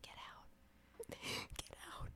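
imitated character's hushed whisper. She tells him to leave the house, whispering. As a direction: whisper it, barely any voice. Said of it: "she's whispering this all the time".

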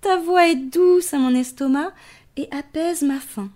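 lion voice. Acted. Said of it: "ajoute-t-il à l'hippo".

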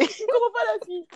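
very high, bewildered put-on voice; shocked taxi driver. Taxi driver baffled by his passenger, shocked. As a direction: squeak it out in bafflement. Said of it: "il est choqué".

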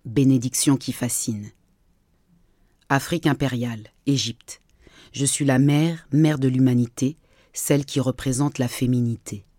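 measured poetic reading with pauses between verses; poem recital. Acted. Podcast host recites her text on humanity's history, poem recital. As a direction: recite each phrase as its own line of verse.

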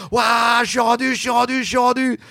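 high, elated call; triumphant cry. Retold or imitated. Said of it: "je fais".

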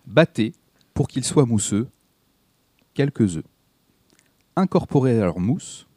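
slow, measured verse recitation with long pauses; declaiming verse. Acted. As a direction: recite it like lines on a stage. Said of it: "il la déclame en vers".

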